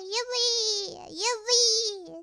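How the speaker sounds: bright, high little cheers of joy; excited cheer. Real, not acted. Streamer cheering a viewer's first super chat, excited.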